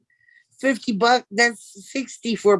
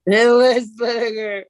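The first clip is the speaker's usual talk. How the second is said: playful shout; 3 semitones higher, 5 dB louder, slower than usual. Pretend. Jokingly calls out the rum name.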